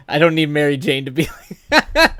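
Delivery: laughing hard, high and loud; cracking up mid-sentence. Real, not acted. Cracking up at chat joke.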